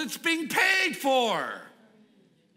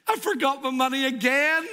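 sheepish excuse; 6 semitones higher than usual. Acted. Ben's excuse again.

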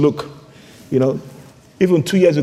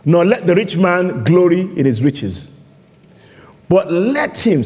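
slow, emphatic Bible reading; measured reading with long pauses; solemn scripture reading; slower than usual. Real, not acted. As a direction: proclaim the verse phrase by phrase.

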